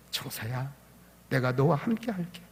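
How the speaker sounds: hushed, reassuring answer; God's gentle inner voice. Retold or imitated. God answers the young man's cry in his heart, softly. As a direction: drop to a soft, tender murmur. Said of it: "하나님께서 제 마음속에".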